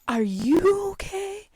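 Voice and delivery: very high, slow, airy mellow question; Mario. Retold or imitated. Ride worker checking on shaken rider, exaggeratedly chill and mellow. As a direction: mimic chilled-out concern, stretching it right out. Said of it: "so mellow".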